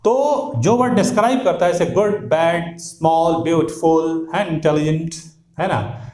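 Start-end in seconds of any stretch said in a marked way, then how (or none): 3.4-4.3 "ब्यूटीफुल" said as byoot-ful, no "tee"; two-syllable beautiful. Shown as a demonstration. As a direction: drop the middle vowel of "ब्यूटीफुल": BYOOT-ful. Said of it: "दो syllable इसमें है". ("ब्यूटीफुल" दो syllable में, ब्यूट-फुल)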